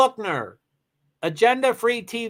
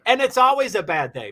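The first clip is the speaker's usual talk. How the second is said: laughing; 4 semitones higher, 4 dB louder than usual. Real, not acted. Still laughing after joke.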